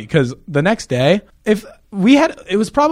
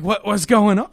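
higher, stumbling bewildered question; retold confusion; 5 semitones higher than usual. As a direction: act lost, repeating the question word. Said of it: "I was in such a state of confusion".

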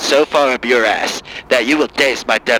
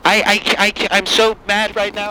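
higher, exasperated caller; angry liberal caller; 4 semitones higher than usual. Acted. Caller fighting to be heard in a higher exasperated voice. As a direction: demand the floor, voice up. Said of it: "Angry Lib".

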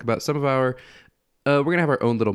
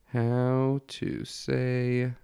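whisper; 2 semitones higher, 6 dB quieter, much slower than usual. Acted. Whispers search query.

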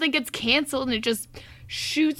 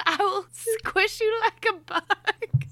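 mock threat; 8 semitones higher, slower than usual. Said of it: "mock threat through laughter".

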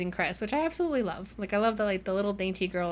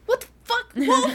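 high, loud, laughing yell of disbelief; imitated outraged squeal; mock shriek; 14 semitones higher, 7 dB louder than usual. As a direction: shriek after someone who just bolted, hammed-up. Cinder yelling as Wolf bolts.

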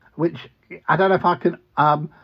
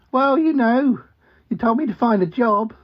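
lightly raised duck voice with quacks; a hint of the cheerful cartoon duck; talking duck; 7 semitones higher than usual. Duck posing as pest exterminator, mildly high and quacky. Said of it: "Ozzy, the talking duck".

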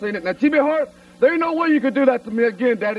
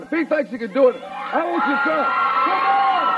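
yelling a dare, rising to a shout on come on; shouted challenge; 2 semitones higher than usual. Real, not acted. Wrestler challenges manager to come out.

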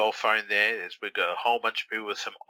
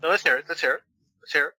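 higher and louder, pushing him to spill it; eager urging; 7 semitones higher, 6 dB louder, much faster than usual. Acted. Eagerly urging friend to speak.

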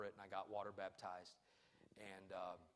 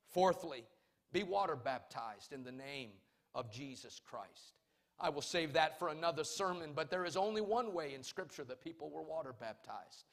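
raised, emphatic sermon delivery; preaching; 3 semitones higher, 5 dB louder than usual. Real, not acted. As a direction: drive the point home to the congregation. Preaches doctrine and testimony with force.

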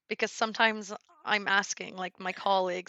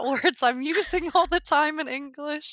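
puzzled quote; 7 semitones higher, 4 dB louder than usual. Retold or imitated. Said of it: "I was like".

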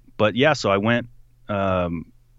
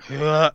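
imitated retching; 5 semitones higher than usual. Imitating the man puking.

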